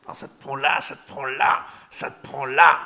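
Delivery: gripped in the gut. Acted. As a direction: push it out harder each time, as if seized inside. Mimes a gut feeling gripping. (de plus en plus fort, pris aux tripes)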